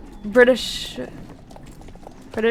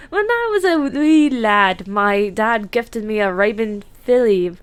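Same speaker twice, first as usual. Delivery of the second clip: attempted Irish accent, light and lilting. Streamer reading a horse breeder's story, attempted Irish accent. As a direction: read it in an amateur Irish brogue. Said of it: "I'm trying to do an Irish accent".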